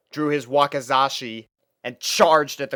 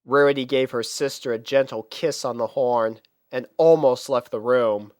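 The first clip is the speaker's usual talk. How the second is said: ordinary delivery, nothing marked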